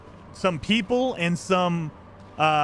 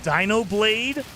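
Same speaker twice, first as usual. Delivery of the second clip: normal talking voice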